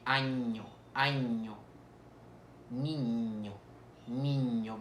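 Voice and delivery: año and niño with a held palatal NY; spaced model words año, niño, long Ñ; Ñ sound. Shown as a demonstration. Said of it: "es el sonido de ñ".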